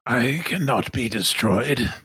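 slow, lightly voiced grand villain; deliberate, lofty defiance; Sun Minister De Winton. Villain answering the threat of destruction, lofty and slow. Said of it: "This is a tough voice to do".

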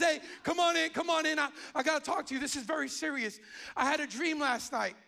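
mildly acted urgency; urgent summons. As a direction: imitate a wife urgently calling someone in. Retelling wife's urgent summons.

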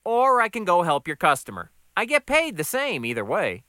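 unrattled new guy, amused. Acted. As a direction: shrug off the teasing, voice lifted.

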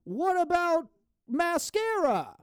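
high, slow jokey punchline; hammed-up third grader rhyme; rhyme gag. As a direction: stretch the rhyme for a laugh. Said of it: "Downtown Abbey, a new era".

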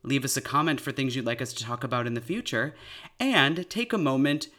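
upbeat podcast announcer read. Acted. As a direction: read it like a sponsor spot. Reads an ad break message.

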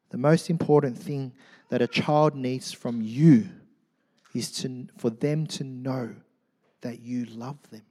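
a quiet, heartfelt plea to fathers; tender, soft. Acted. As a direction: drop the voice right down and say it gently to fathers.

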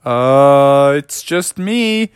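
acted nervousness, pitch climbing; nervous. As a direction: squeak it hesitantly to a scary stranger. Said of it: "started to get kinda nervous".

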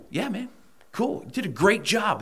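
high, hammed-up fake enthusiasm; mocking praise. Imitating company staff who praise then ghost him, mock-cheerful. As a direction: parody their hollow compliments.

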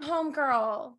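exasperated friend's mock telling-off; mock scolding.

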